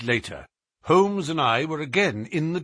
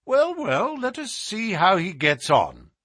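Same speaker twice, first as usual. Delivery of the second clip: lightly unruffled, starting high; imperturbable; 7 semitones higher than usual. Acted. Holmes answers the agitated Colonel, imperturbable. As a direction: brush off the fuss easily. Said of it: "said my friend imperturbably".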